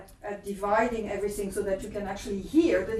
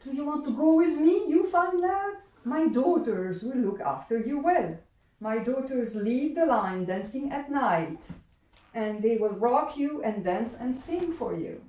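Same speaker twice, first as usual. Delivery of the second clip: enticing Earl King; 3 semitones higher than usual. Acted. Earl King tempts the boy with his daughters, eager. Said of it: "the Earl King comes".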